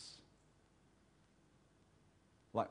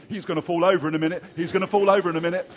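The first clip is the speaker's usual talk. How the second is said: commentator voice; 4 dB louder, much faster than usual. Retold or imitated. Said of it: "The B B C".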